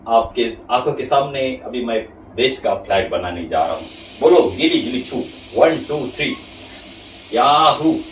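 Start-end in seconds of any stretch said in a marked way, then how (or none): 4.2-8.0 put-on kids party magician. Magic trick reveal for kids.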